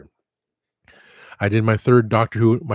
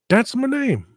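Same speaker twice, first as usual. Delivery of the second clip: indignant squeak; 13 semitones higher, 3 dB louder, slower than usual. Retold or imitated. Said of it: "it's like".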